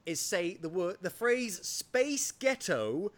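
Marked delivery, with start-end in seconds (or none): 1.7-3.1 drawn-out put-on American accent. Shown as a demonstration. British host teaches an accent trick, slow American accent. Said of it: "in an American accent".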